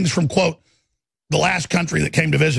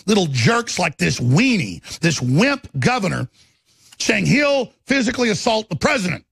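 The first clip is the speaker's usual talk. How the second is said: real indignant rant, leaning on the insults; angry rant. Real, not acted. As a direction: vent at the people attacking you, stretching the insults. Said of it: "I'm so angry".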